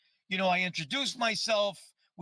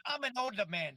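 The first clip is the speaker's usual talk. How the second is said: put-on old Italian man. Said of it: "And he goes".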